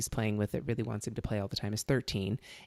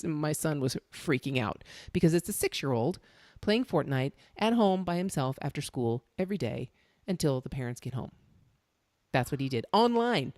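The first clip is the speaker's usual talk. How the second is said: ordinary talk, nothing marked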